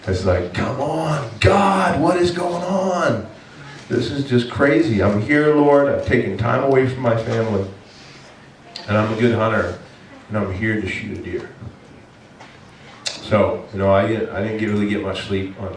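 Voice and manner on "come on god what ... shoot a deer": exasperated prayer. Retold or imitated. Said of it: "just yelling in my tent".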